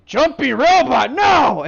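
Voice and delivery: high, loud, slow cry of a rattled bandit; panicked bandit. Acted. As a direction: yelp it out like a cornered thug. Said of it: "he kinda goes".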